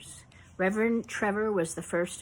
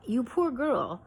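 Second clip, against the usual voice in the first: pitying church lady; 3 semitones higher than usual. Retold or imitated. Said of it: "say something like".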